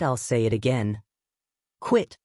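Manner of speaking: QUIT jumps way up; emphatic through clenched teeth. A narrator's reading. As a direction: spit each word out, teeth clenched. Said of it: "emphasized each word through clenched teeth".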